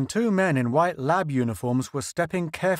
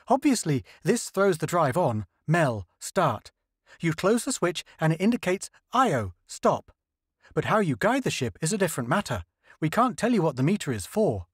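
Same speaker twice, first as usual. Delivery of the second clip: higher, earnest explaining scientist; lightly voiced eager linguist, pitched up; 4 semitones higher than usual. Linguist explains the alien dials to the crew, higher earnest voice.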